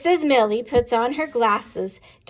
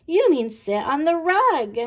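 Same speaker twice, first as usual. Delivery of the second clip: put-on amused children; 6 semitones higher, 3 dB louder than usual. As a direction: tease the teacher like giggling pupils. Children correct teacher.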